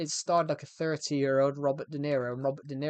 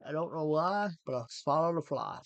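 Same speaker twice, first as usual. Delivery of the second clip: A famous singer's voice; 2 semitones higher than usual. Acted. Streamer riffing for viewers, loose impersonation of a singer. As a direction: ham it up as a not-quite version of the singer. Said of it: "Not quite the singer".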